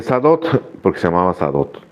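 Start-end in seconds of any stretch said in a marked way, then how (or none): 0.0-0.6 calling out a name. Retold or imitated. Calling out to cellmate.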